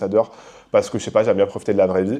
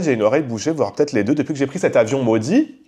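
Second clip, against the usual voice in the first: ordinary delivery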